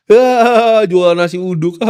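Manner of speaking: put-on loud, sneering laugh at the kid selling nasi uduk; mocking classmates. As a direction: scoff and laugh like a bully. (teman sekelas mengejek sambil tertawa)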